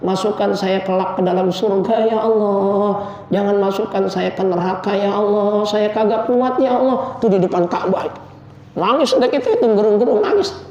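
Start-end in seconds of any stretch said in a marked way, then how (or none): 0.0-7.2 a fervent plea to God, voice lifting on each ya Allah; begging Allah, rising a little each time; pleading prayer. Acted. Preacher acting out a pilgrim's prayer, pleading.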